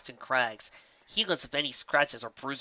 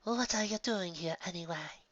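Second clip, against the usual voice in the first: serious; 6 semitones higher, 6 dB quieter than usual. A narrator's reading. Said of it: "Her expression turned serious".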